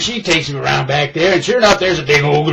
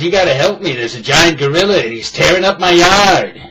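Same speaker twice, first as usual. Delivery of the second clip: louder, desperate begging on the phone; frantic plea; 3 semitones higher, 6 dB louder than usual. Acted. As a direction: beg the man to come, panicking. Frantic caller begs for help.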